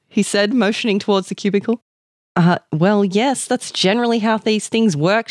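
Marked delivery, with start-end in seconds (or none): 2.4-5.3 absent-minded. Acted. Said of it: "she said, absent-mindedly".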